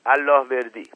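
talking through a mouthful; stuffed-mouth reply; mouth full. A narrator's reading. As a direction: repeat it with food in the mouth. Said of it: "با دهن پر تکرار کرد".

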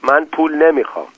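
angry. A narrator's reading. Wife lifting her wet face, mildly angry. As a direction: snap it back with a touch of anger, stress on من. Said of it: "با عصبانیت گفت".

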